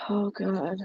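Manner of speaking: winded, short of breath. Real, not acted. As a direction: talk while catching your breath. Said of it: "I'm, like, out of breath".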